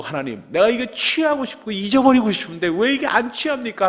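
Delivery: high, pleading cry to heaven; anguished plea to God. Retold or imitated. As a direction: beg God through tears, voice up high. Prayer while weeping, retold. (하나님께 울부짖듯 높게)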